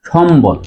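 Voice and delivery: সম্বল said shombol, clear b; correct pronunciation. Shown as a demonstration. Teacher concludes the rule, b pronounced. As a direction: sound both m and b in সম্বল. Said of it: "উচ্চারণ হবে".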